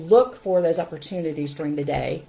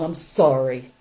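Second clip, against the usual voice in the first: low, grudging mock apology; put-on sullen child's apology; insincere apology; 4 semitones lower, 6 dB louder, slower than usual. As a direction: force out a sorry you don't mean. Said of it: "not really sorry".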